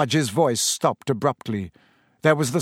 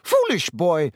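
thick voice; 3 semitones higher than usual. Acted. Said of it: "blew her nose and said thickly".

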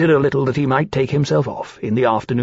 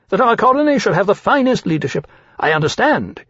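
put-on high, eager, ingratiating young dragon voice; oily flattery pitched up high; fawning dragon Caesar; 9 semitones higher than usual. Young dragon Caesar flattering the captain, in a high ingratiating voice.

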